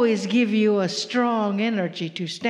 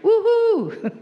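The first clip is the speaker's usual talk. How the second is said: much higher whooping cheer; excited cheer; 13 semitones higher, 4 dB louder than usual. Acted. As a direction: whoop it up with joy. Cheering again.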